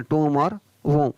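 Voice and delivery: टूम and वोम with long oo and silent b; टूम like tomb, वोम like womb; careful pronunciation. Shown as a demonstration. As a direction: stress टूम and वोम, no b at the end. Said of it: "इनका उच्चारण आपको सही करना है".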